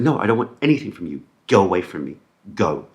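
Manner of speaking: fast, loud brush-off; angry dismissal. Retold or imitated. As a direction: wave him away angrily. Dad dismissing the manager.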